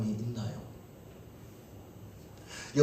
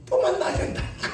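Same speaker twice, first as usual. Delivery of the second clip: laughing. Real, not acted. Teasing answer to congregation.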